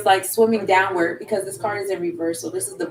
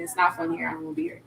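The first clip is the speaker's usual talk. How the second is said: whispered panic; 3 semitones lower, 6 dB quieter, much faster than usual. Pretend. Acting out panic in deep water.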